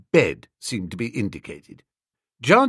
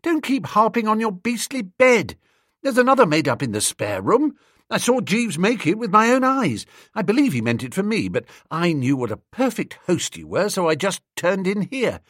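higher, peevish complaining; querulous; 7 semitones higher than usual. Acted. Bingo to Bertie, fed up about the bed, querulous and higher. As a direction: whine it out like a put-upon guest. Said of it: "said young Bingo querulously".

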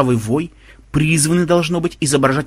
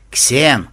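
"Ксен" said firmly and pointedly; said with pressure. A narrator's reading. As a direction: lean hard on the name "Ксен". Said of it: "с нажимом произнёс Банзай". («Ксен» с нажимом)

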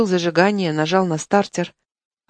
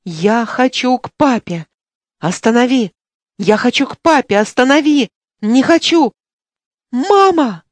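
put-on high, loud sobbing child's cries that climb higher toward the end; a scared little boy wailing for his dad, voice rising to a final cry for mama; 4 semitones higher, 4 dB louder than usual. A narrator's reading. Boy begs the driver to stop, high loud crying. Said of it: "закричал, заплакал".

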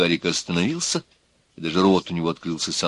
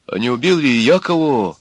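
higher, dawning dread; horrified; 4 semitones higher, 4 dB louder than usual. A narrator's reading. Peasant lad suddenly doubts his own innocence, horrified. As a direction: artless question with a touch of horror. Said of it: "Вдруг он сел и с ужасом сказал".

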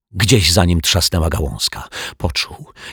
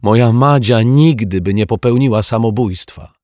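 put-on indignant girl; 5 semitones higher, 5 dB louder than usual. A narrator's reading. Girl defends her caterpillar.

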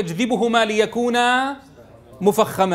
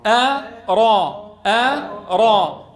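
staccato; much slower than usual. Shown as a demonstration. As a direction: slowly separate each syllable. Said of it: "الخطوة الأولى".

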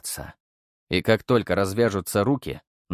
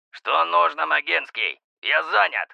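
irritated, higher, through clenched teeth; through gritted teeth; 6 semitones higher than usual. A narrator's reading. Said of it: "Процедил он сквозь зубы".

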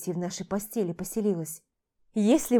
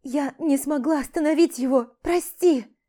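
higher, pleading apology on the edge of tears; tearful apology; 6 semitones higher, 5 dB louder than usual. Acted. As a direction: beg forgiveness while crying. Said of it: "Заплакала она".

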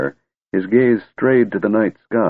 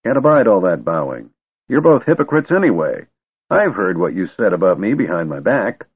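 put-on grumpy old wizard.

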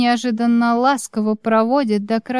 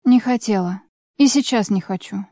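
offhand; 2 semitones lower than usual. Acted. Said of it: "небрежно кидаю".

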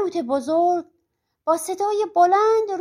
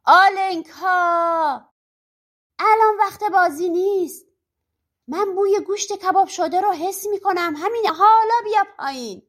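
high, raised angry holler; bellowed scolding order, pitched high; witch's roar; 5 semitones higher, 4 dB louder than usual. A narrator's reading. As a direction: call up sharply with a long-drawn first name. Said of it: "جادوگر نعره کشید".

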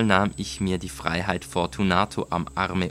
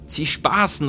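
high, louder startled outcry; exclaiming; 8 semitones higher, 5 dB louder than usual. A narrator's reading. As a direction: cry it out, backing away. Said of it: "rief er aus".

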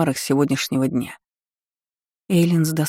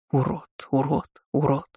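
distant flashback echo; 3 dB quieter than usual. Retold or imitated. Remembered insult echoing in head.

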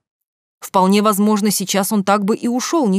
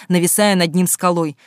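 ordinary delivery

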